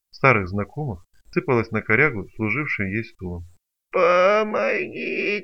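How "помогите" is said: slow, high sung-out howl for help. Acted. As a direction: wail it long and high. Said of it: "завыл излом". (протяжный вой, высоко)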